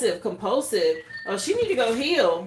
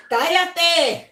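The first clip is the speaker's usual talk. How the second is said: mock shout; 5 semitones higher, 5 dB louder than usual. Telling chatty spirit shut up.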